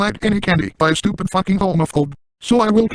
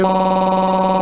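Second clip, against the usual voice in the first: mock moan. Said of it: "it will sound like".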